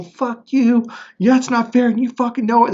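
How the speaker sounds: angry outburst. Retold or imitated.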